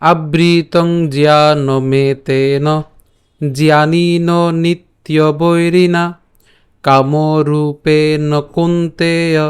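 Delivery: very slow, even Sanskrit chant; full shloka read out slowly for the class; slow verse recitation. Shown as a demonstration. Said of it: "শুরু করে পাঠ করি তাহলে কেমন হবে".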